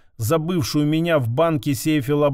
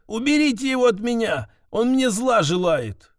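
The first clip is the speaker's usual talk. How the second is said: frightened clone voice; 7 semitones higher than usual. Acted. Clone yelling to be removed.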